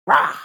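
short "rah" battle cry; mock war whoop; rallying roar. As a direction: punch out a rally-the-troops "rah". Hype cry after backing her son.

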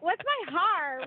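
puzzled echo with "hair" as "har"; echoed Southern pronunciation. Retold or imitated. Asks the friend what she means, "hair" as "har". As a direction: say "hair" as "har", quoting it back. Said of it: "I'm like".

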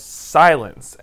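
half-voiced imitation of a yelled order; mild mock yell. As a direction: lightly act out Frollo yelling. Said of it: "And Frollo yells".

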